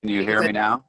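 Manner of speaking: muffled garbled call audio; underwater. Real, not acted. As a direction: sound like you're underwater. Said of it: "Sounds like you're underwater".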